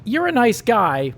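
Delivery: a hint of Patty, sweet but final; Patty letting him down. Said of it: "was all he got for his troubles".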